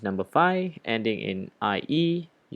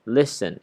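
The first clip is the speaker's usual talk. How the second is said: "Listen" stressed up front, LIS-ten; first-syllable stress; 4 dB louder than usual. Shown as a demonstration. Teacher gives another example for students, first-syllable stress. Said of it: "the stress is on the first".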